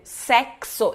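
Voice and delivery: "Sexo" with a crisp K plus S. Shown as a demonstration. Teacher comparing with Portuguese, crisp KS sound. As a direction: split the X of "Sexo" into "k-s". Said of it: "ele tem o som de X".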